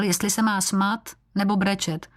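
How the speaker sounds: ordinary delivery, nothing marked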